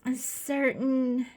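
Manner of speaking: put-on slow, breathy stab at a Scottish accent, fading to a whisper; a failed try at a Scottish accent that comes out British; mock Scottish accent; attempted Scottish accent. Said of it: "That was totally not even Scottish".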